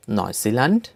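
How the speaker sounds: "New Zealand" in German, as NOY-see-lahnt, rising; German-style "New Zealand", lifted at the end; German pronunciation. Shown as a demonstration. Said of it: "names of countries with German accent".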